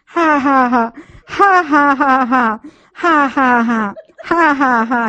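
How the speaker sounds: rolling bursts of real laughter. Real, not acted. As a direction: let the laughs spill out one after another. Holy laughter continuing.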